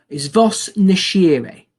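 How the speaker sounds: vos nascere said very slowly, nascere as na-shi-ray; slow Latin demo. Shown as a demonstration. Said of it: "This is quite a difficult one".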